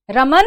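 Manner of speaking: रमन called out very loud with the न stretched long; long drawn call. Shown as a demonstration. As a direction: shout रमन and hold the न. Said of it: "उसको लंबा खींचेगा".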